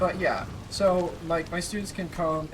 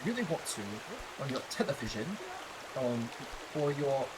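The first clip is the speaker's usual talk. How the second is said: put-on British accent, enunciating T's; 3 dB quieter than usual. Shown as a demonstration. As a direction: teach in an amateur British accent. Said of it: "I'm talking like it all the time".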